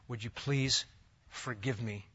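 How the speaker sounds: a humble, sincere request for forgiveness; sincere plea. Shown as a demonstration. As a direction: ask gently for forgiveness. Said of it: "he said in Psalm fifty-one".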